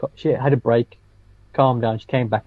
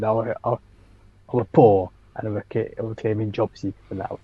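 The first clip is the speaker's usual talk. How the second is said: put-on Yorkshire accent; 2 semitones lower than usual. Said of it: "I did, like, a Yorkshire accent".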